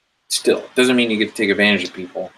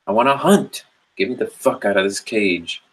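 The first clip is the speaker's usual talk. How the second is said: angry tiger; 2 semitones higher than usual. Retold or imitated. The caged tiger demanding to hunt, angry. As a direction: snarl it out like a tiger fed up with its cage. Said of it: "Your tiger gets angry".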